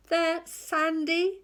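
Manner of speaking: high, slow pirate voice; a squeaky pirate whining about sand; pirate Percy Patch. A narrator's reading. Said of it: "said Percy Patch".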